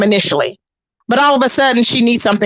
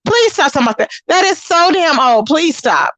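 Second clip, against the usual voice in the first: exasperated; 4 semitones higher than usual. Real, not acted. Dismissing Velvet's excuse.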